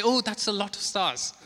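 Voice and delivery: a mock wowed "Oh"; naive stargazer. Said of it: "they say".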